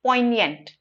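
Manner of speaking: poignant as POYN-yunt, g left silent. Shown as a demonstration. Teacher correcting the word for students, silent g in poignant. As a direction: drop the g in poignant, gliding from n to y. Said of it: "that's how we pronounce it".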